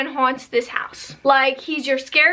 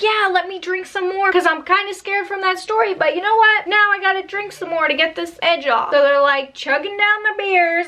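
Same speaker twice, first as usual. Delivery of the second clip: higher, excited party voice; hyped friends; 5 semitones higher than usual. Retold or imitated. Drunk friends daring each other, higher and excited. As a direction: play drunk friends egging on.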